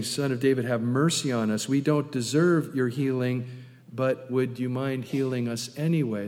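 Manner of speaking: understated, humble asking; humble plea. Retold or imitated. Blind men calling out for mercy, mildly humble. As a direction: ask mildly, without any demand. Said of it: "That's humility".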